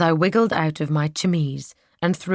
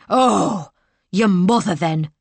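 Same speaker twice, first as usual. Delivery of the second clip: indignant maid; 3 semitones higher, 5 dB louder, slower than usual. Acted. Maid retorts.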